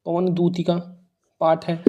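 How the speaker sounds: hushed, piece-by-piece dictation; murmuring while writing. Real, not acted. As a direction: say it quietly to yourself as you write. Repeats answer while writing it.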